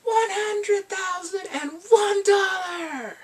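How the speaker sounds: very high, loud, slow mock bid; gloating, drawn-out overbid; cheeky overbid. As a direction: shout the bid to outdo her.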